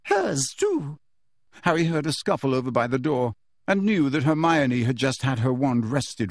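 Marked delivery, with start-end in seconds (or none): 0.0-1.0 high clipped command; curt order. Acted. Umbridge ordering Hermione's wand taken, curt. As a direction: add it curtly.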